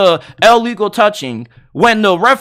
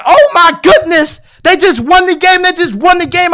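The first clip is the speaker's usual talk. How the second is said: higher, louder, thrilled replay of his reaction; hyped disbelief; 6 semitones higher, 3 dB louder than usual. Retold or imitated. Fan reliving the winning catch, excited yelling. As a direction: shout it like your team just scored. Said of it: "I was going crazy".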